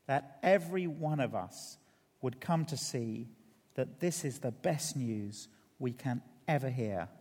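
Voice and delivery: subdued, measured prayer; public prayer. Real, not acted. Leads the congregation in prayer.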